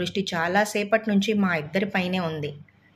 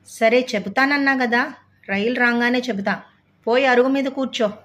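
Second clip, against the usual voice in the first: raised, impatient brush-off; exasperated, telling him to go sit; irritated; 4 semitones higher, 3 dB louder than usual. Acted. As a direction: snap back, fed up with the pestering. Narrator annoyed by pestering man.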